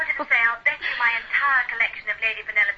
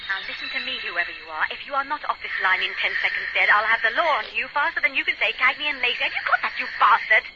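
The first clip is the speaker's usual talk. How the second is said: angry threat. Acted. Friend threatens the caller.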